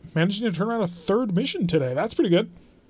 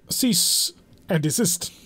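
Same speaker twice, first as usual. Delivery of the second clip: mock formal; much slower than usual. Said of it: "I'll put on airs of some description".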